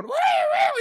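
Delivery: very high whooping cheer; mock woo. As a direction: whoop like a party. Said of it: "you hear Bob going".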